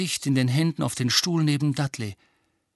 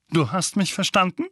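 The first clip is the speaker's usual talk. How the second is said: stern uncle; 7 semitones higher than usual. A narrator's reading. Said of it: "sagte Onkel Vernon".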